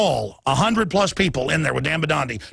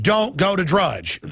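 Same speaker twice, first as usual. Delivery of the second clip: slow, stern mock order; mock official warning; slower than usual. Quoting the White House advisor, slow and stern. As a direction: slowly lay down the mock ban. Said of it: "chief advisor to Obama said".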